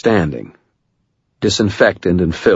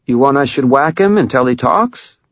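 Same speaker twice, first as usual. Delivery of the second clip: deepened tough-guy voice; 8 semitones higher, 3 dB louder than usual. A narrator's reading. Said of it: "She deepened her voice and blocked out any hint of a nasal tone".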